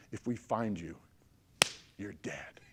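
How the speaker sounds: low, softened voice sinking on the last words; hushed threat. Acted. Teammates warning rookies about the graveyard game, hushed threat. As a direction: drop it low and quiet, menacingly.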